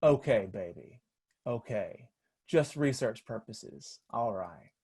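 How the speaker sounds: soft, low, knowing reassurance; gentle motherly comfort, quietly voiced; compassionate. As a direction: soothe him like someone who knows. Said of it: "of compassion".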